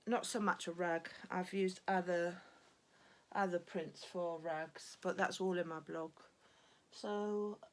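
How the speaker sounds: slightly breathless talking; out of breath. Real, not acted. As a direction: speak a bit winded, catching breath. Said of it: "sorry I'm a bit out of breath".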